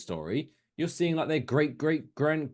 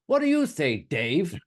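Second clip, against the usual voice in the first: lightly mocked courtier, pitched up; royal courtier; 5 semitones higher, 4 dB louder than usual. Courtier calling on Dave at royal court, mock regal. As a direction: pose it as a mock-regal question. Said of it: "like, a royal court".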